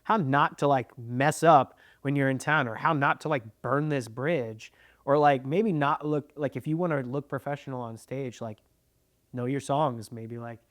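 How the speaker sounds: talking while chewing gum. Real, not acted. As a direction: speak around a wad of gum. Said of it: "I'm chewing gum right now".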